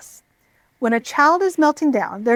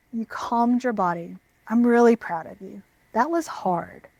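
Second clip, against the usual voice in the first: put-on gentle, softer praise to a calmed child; softly lowered voice; 4 dB quieter than usual. Shown as a demonstration. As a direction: lower your voice and praise them kindly. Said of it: "lower your voice".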